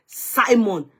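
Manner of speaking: "Simon" with a clear "sigh" in the first syllable; SY-mon pronunciation. Shown as a demonstration. Host defends own way, "Simon" as SY-mon. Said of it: "whatever way I have called it".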